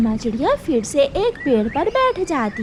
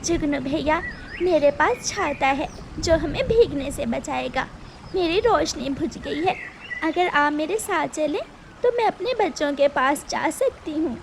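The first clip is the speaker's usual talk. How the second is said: soft, higher polite bird voice; pleading mother bird; 3 semitones higher, 4 dB quieter than usual. Acted. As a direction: ask the firefly kindly for help. Mother bird asks firefly.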